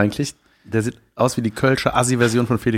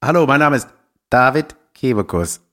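robot voice; 2 semitones higher than usual. Pretend. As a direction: speak like a stiff robot. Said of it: "von so einer Roboterstimme".

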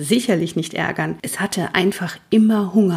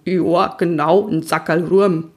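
pony character. A narrator's reading. Toni pony agreeing eagerly.

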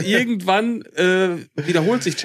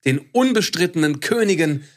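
arrogant; 2 semitones lower than usual. Acted. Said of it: "es wird nicht mehr arroganter".

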